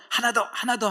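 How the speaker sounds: loud, high gym coach push; trainer shouting. Retold or imitated. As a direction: bark encouragement like a trainer.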